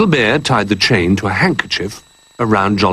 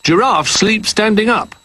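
cheerful; 11 semitones higher than usual. A narrator's reading. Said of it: "said Jolly cheerfully".

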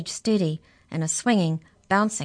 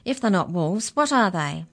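demanding; 5 dB louder than usual. Acted. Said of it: "Mallory demanded".

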